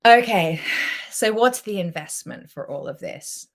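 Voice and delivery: normal talking voice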